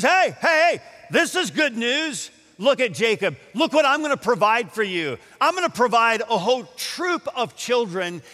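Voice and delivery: high, loud-starting burst of good news; excited announcement. Acted. Leah boasting to Jacob of children, excitedly. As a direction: crow it eagerly, easing slightly as it goes. Acting out Leah's glad boast.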